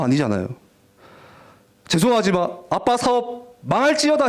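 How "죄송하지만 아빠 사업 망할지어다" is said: high, pretend solemn pronouncement; hammed-up decree of doom; mock curse. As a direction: proclaim a silly curse. Absurd mock curse on father's business.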